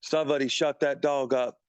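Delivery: mock British accent, lightly done. Annoyed musician at a recording session complains, mock British accent. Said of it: "That was my British accent".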